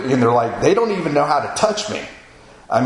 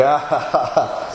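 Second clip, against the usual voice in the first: laughing reply, imitating his own awkward moment; retold laughing. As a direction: laugh out a "yeah" as if at a joke. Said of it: "I started laughing".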